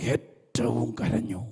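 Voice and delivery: ഏറ്റവും drawn out slowly and weighted, then കരഞ്ഞു falls away; slow emphasis. Shown as a demonstration. Preacher dwelling on ഏറ്റവും to show the congregation its weight. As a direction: lean hard on ഏറ്റവും at half speed. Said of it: "അങ്ങനെയൊക്കെയുള്ള വാക്കിൻ്റെ പ്രത്യേകത എന്താ?".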